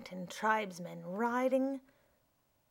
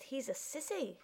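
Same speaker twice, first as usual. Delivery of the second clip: under his breath; 5 semitones higher, 6 dB quieter than usual. Acted. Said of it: "Eugene said under his breath".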